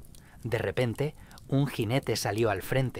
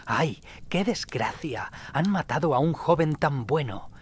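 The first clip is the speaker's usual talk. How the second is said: grieving shout; 5 semitones higher, 3 dB louder than usual. A narrator's reading. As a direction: cry out the loss to the square. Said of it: "Otros gritaban".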